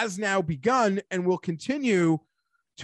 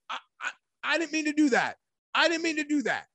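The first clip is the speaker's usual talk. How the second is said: higher, put-on voice, the first take rushed and stammering; mock character voice; 7 semitones higher, faster than usual. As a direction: play a sheepish cartoon apology. Sudden mock quote, odd voice.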